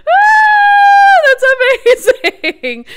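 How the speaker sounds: real high-pitched squeal of joy; excited scream. Real, not acted. Player celebrates clearing the level, excited scream. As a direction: scream with delight, drawn out and loud. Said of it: "I just screamed".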